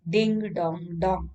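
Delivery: slow, sing-song ding dong like a ship's bell; imitating a bell. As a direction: drag out each ding like a bell. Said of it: "This is the like a bell".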